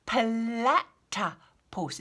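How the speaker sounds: Platypus drawn out syllable by syllable, slow and clear; slow careful platypus. Shown as a demonstration. Teacher to children, slow careful Platypus. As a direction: spell out Platypus slowly with the tongue. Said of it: "It's all about the tongue".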